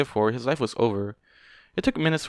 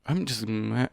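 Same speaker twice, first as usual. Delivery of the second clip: ordinary delivery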